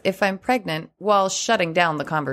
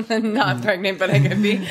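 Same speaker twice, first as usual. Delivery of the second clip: said through a laugh. Shown as a demonstration. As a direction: giggle it out, coy. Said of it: "deliver with good humor or a twinkle".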